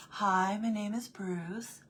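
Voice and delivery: slow, hushed shark voice; lightly voiced Bruce from Finding Nemo. Quoting the shark from her favorite movie, slow and hushed. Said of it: "Finding Nemo".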